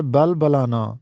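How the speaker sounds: short a after both b's in بلبلانا; correct balbalana. Shown as a demonstration. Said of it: "یہ لفظ ہے بلبلانا". (بلبلانا کو زبر کے ساتھ "بَلبَلانا" پڑھیں)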